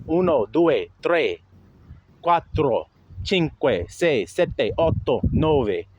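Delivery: uno, due, tre counted out with Italian vowels and tapped R's; Italian pronunciation. Shown as a demonstration. Showing how he read numbers in class, careful Italian pronunciation. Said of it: "You see how I'm saying it?".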